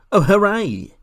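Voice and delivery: high, loud burst of joy; excited cheer. A narrator's reading. Boy hearing they will escape north, overjoyed.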